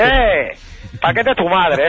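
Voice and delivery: ¡Eh! soltado alto y ofendido, luego la réplica; indignado. Acted. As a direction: salta herido en su orgullo. Michael se ofende por el insulto. (Michael responde ofendido al insulto de «paquete»)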